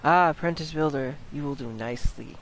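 lightly voiced mysterious speaker; game character voice. First take of game character's line.

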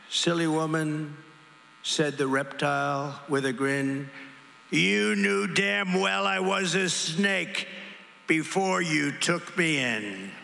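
slow dramatic poem reading; measured rally poem reading with acted lines; poem recital. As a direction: recite it like a cautionary tale. Reads the snake poem aloud.

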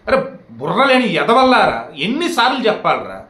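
slow, scornful telling-off of fools; exasperated scolding. Real, not acted. A creator scolding his repeat commenters, slow and exasperated. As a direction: drag it out at people who never listen.

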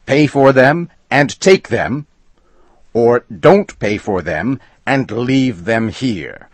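high, loud shout at the customer. A narrator's reading. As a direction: bark the rule back at him. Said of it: "shouted Flannery".

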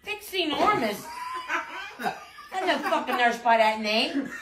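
laughing through the words. Real, not acted. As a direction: laugh while talking. Grandma laughs at prank name.

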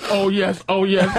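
mock stilted recital, like reading a thought bubble; mimicked, spelled-out moan; comic-book thought bubble. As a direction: imitate him reciting it word for word. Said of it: "says it like it should be a comic book thought bubble".

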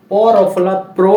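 প রফলা প্র spelled out clearly, প্র as "pro"; spelling aloud. Shown as a demonstration. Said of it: "বানান করে পড়ি". (বানান করে স্পষ্ট উচ্চারণ)

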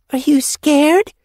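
high, loud, drawn-out taunt; taunting retort. A narrator's reading. Young apprentice challenges friend who stopped her, retorting. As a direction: throw it back as a challenge. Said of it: "Foxpaw retorted".

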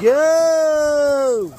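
sharp loud shout. Real, not acted. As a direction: yell it out to shoo them. Shooing chickens out.

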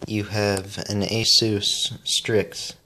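sharp whistling S sounds. Real, not acted. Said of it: "I'm sorry that my S's whistle".

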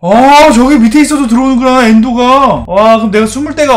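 loud, high astonished outburst; loud exclaim. Real, not acted. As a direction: shout it in disbelief. Realizes hiding spot fails.

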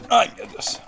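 breathless gasp. Real, not acted. Winded whisper.

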